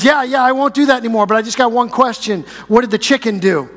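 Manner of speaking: the frozen bird promising quickly, then a cheeky question; sheepish bird. Retold or imitated. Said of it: "And the bird says".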